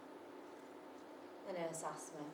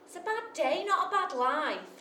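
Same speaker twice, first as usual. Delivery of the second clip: quoting the nurse; 8 semitones higher, 8 dB louder than usual. Retold or imitated. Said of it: "nurse said".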